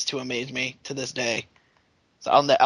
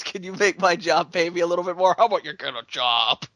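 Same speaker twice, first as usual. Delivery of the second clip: mocking old politician; 2 semitones higher, faster than usual. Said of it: "exactly how he goddamn said it".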